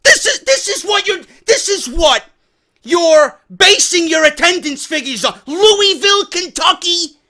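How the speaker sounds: high, loud disbelieving cry; can't believe what he's hearing; incredulous outburst. Real, not acted. Outraged disbelief at attendance report.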